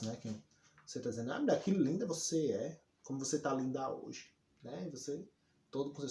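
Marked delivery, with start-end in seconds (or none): 1.3-4.3 fake compliment. Shown as a demonstration. Teacher acts out two-faced praise to a woman, sarcastic. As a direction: lay the praise on falsely. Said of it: "falsidade, os olhos virados".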